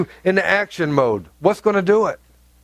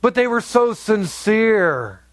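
mock excuse; much slower than usual. Mocking excuse, slowed.

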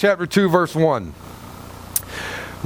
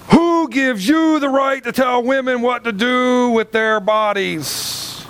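indignant challenge; 6 semitones higher, slower than usual. Retold or imitated. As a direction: fire it at him like an accusation. Woman confronts pastor on plane.

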